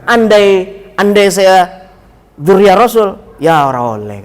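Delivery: quoting the kiai. Retold or imitated. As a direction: voice the kiai's joking line. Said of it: "Ngomongnya begitu".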